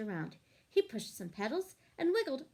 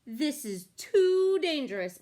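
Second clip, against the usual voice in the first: worried sheep; 2 semitones higher, 6 dB louder than usual. A narrator's reading. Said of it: "what she thought was".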